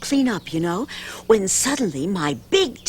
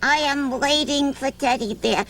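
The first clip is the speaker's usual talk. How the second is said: put-on child; 4 semitones higher than usual. Danny voiced, insisting.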